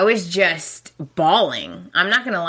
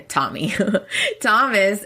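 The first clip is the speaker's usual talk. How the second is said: laughing; 3 semitones higher than usual. Real, not acted. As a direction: laugh as you say Tommy again.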